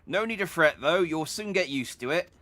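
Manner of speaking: put-on a cheery old sailor reassuring a newcomer. NPC reassures a seasick passenger, lightly put-on old sailor voice.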